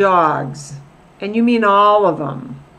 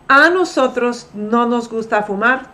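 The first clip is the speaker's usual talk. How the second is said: "A nosotros" said with weight; emphatic; 2 semitones higher than usual. Shown as a demonstration. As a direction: stress on "A nosotros". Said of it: "just makes it emphatic".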